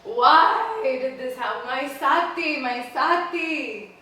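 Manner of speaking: loud, drawn-out theatrical lament; moaning and crying. Acted. Husband wandering with his wife's corpse, moaning in grief. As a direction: wail it high and slow, acted grief. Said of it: "moaning and crying".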